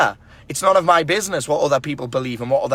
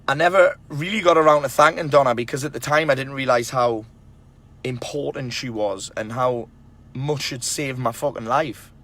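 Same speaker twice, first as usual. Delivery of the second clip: emotional. Real, not acted. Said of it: "I'm getting a bit emotional right now".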